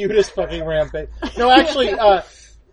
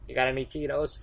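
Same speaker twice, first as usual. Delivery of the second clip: low, soft stoned sheep voice; a low-voiced sheep mumbling for snacks; rampaging sheep at the door asks the farmer for snacks, low and soft; 6 semitones lower, 12 dB quieter, faster than usual. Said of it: "I'm gonna be a Welsh sheep on a rampage".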